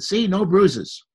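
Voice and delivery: drawn-out, pleased show-and-tell. Retold or imitated. Walt showing a boy his knee socks, slow and pleased. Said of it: "and he said".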